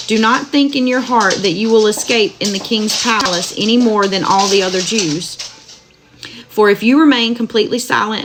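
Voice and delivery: steady, measured Bible reading aloud; scripture reading. Acted. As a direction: read the verses evenly to listeners. Reads Book of Esther aloud.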